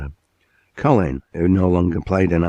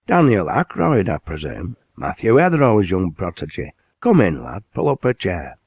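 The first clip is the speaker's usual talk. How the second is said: hearty mill owner; 2 semitones higher than usual. Acted. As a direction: greet the lad like a proud northern boss. Factory owner greets lad.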